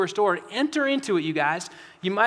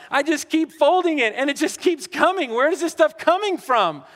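higher, louder fed-up whine; mock frustrated grumble; exasperated complaint; 5 semitones higher, 3 dB louder than usual. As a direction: voice a worn-out parent buried in laundry. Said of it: "you're just going".

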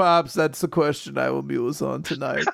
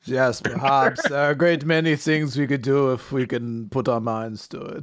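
dog voice; 5 semitones lower than usual. Acted. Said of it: "the dog's just like".

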